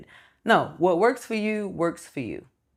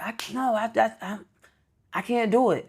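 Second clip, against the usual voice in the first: put-on higher, whiny little-kid voice; imitating frustrated son; 5 semitones higher, 3 dB quieter than usual. Mother mimics her son giving up on math, in a whiny voice. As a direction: stammer it out like a stuck child.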